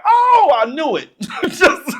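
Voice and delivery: high, loud burst of delight; thrilled little-kid exclamation; excited kid. Retold or imitated. Excited child watching toy fly.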